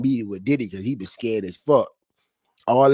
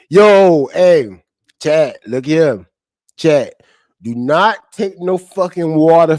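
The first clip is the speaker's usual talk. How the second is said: tag; 3 semitones higher, 4 dB louder than usual. Real, not acted. Urgently warns viewers about drinks.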